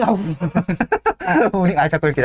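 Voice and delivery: laughing at himself, can't stop. Real, not acted. Lecturer apologizing to listener, laughing through it. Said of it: "아, 이게 죄송합니다".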